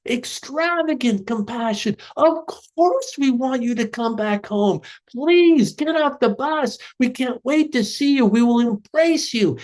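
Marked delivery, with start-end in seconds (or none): 2.2-9.6 high, eager calling out to a returning son; pleading with open arms, lifting high; joyful welcome home. Acted. Family begging the son off the bus, joyful and high.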